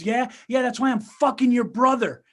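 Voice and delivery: mock spiteful confession, hit hard; brutal retort. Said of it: "it's brutal".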